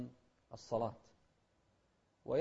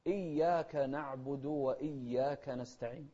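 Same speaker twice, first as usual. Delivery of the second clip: measured tajweed reading; slow Quran recitation; slower than usual. Shown as a demonstration. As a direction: recite slowly and clearly. (ترتيل بطيء متأنٍ)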